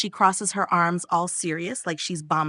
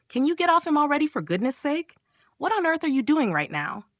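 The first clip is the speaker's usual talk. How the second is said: irritated, high-pitched telling-off; pissed-off yell; 8 semitones higher than usual. A narrator's reading. Bomb interfering as Oppa talks to her friend, pissed-off yelling. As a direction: snap in exasperation, voice pitched up. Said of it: "pissed off, yelling".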